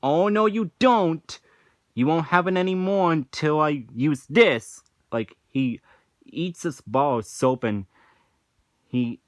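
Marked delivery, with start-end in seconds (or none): 0.0-4.8 mock stern SpongeBob. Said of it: "And he's like".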